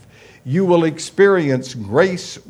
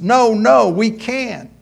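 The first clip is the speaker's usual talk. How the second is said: high, louder hammed-up girl saying no; high girl's voice; 11 semitones higher, 8 dB louder, slower than usual. Girl refusing her date at the door, high mock pleading. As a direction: squeal out the refusals like a flustered girl.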